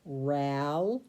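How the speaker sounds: "Rally" scooped up between the double L's; "Rally" scooped with a rising sweep; scooped syllables. Shown as a demonstration. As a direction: scoop across the two L's. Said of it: "let's scoop it right between those double L's".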